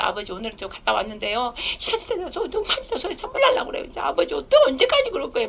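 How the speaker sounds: high, whiny grumble to the Father; complaining prayer. Shown as a demonstration. Preacher showing how to vent grievances to God, high and whiny. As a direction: pitch it up and whine your complaint. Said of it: "막, 막 얘기해".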